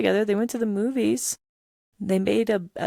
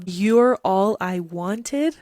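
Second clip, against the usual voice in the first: louder, very slow, rising in disbelief; incredulous question; 5 dB louder, much slower than usual. Shown as a demonstration. Pointing out the lyric to viewers, incredulous rising repeat. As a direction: repeat it back as if it's too perfect to believe. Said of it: "Have you heard any lyric that sounds more like Bella Swan".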